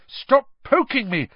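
high pained irritation; annoyed protest. A narrator's reading. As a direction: object sharply to being prodded. Protests at being poked.

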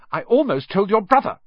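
high, loud, cross retort; snapped. A narrator's reading. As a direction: snap back at him crossly. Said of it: "Hermione snapped".

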